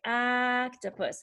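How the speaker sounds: slow "octopus" with a stretched "ah"; short O. Shown as a demonstration. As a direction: hold the first vowel of "octopus". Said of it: "the short sound is".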